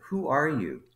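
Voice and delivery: high start, falling at the end; baffled question. Retold or imitated. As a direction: imitate a boss puzzled by who this is. Manager reads card, baffled.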